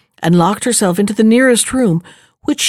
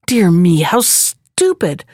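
princess feigning dismay; 4 semitones higher than usual. Acted. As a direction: fake a little fluster. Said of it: "said she".

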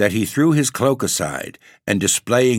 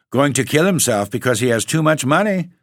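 higher-pitched, amused disbelief; tickled exclamation; 7 semitones higher, 4 dB louder than usual. A narrator's reading. The Baron hears the figure's absurd news, tickled exclamation. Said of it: "quite tickled".

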